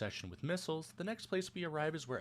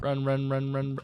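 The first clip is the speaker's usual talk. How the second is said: urgent; 7 dB louder than usual. Real, not acted. Urging himself to run.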